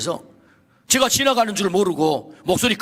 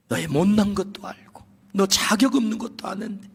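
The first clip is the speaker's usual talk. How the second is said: voice of God. Retold or imitated. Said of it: "하나님께서 제 마음에 음성이 들려왔어요".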